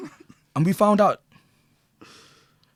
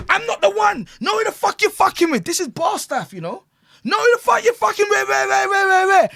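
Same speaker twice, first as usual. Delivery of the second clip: high, loud mock bad-man shouting; hammed-up aggressive girl, pitched high and loud; imitating the girl acting like a bad man; 12 semitones higher, 4 dB louder than usual. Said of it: "she started talking to me like she's a bad man".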